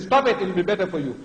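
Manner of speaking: brisk, firm order; militant command. Shown as a demonstration. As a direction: order them to stop, with authority. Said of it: "This is how Allah talks".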